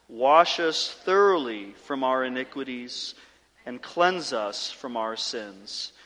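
measured, unhurried confession, pausing so each phrase can be considered; slow corporate prayer. Real, not acted. Pastor leading congregation in kneeling confession, slowly and deliberately. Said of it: "I want to read it more slowly".

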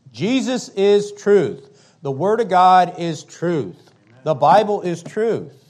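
loud, slow, hammering declarations; preaching at full force. Real, not acted. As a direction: pound each claim from the pulpit.

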